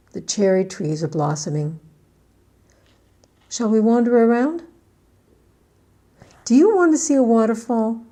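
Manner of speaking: loud, cheery tour-guide delivery; acted example dialogue. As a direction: call it out as if showing a friend around. Acts out an outing for example dialogue.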